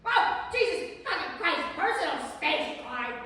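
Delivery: loud laughing protest; exasperated yell. Acted. Telling Clyde to back off, loud and laughing. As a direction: shove him off with your voice. Pushing away a clingy colleague.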